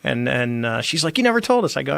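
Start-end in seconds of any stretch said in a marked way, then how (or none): 1.2-1.8 high-pitched imitated complaint; retold reproach. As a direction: mimic an in-law's astonished protest, pitched up. Mother-in-law reproaching him in story.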